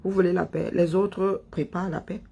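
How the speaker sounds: normal talking voice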